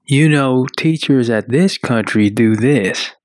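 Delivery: light Southern drawl on the question; Southern accent. Acted. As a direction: ask it with a hint of a Southern accent. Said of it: "Why is that saying in a Southern accent?".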